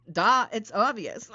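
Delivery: "duh, it's obvious" said with a mock eye-roll. Shown as a demonstration. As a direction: make it sound painfully obvious. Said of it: "I say it with the duh, it's obvious tone".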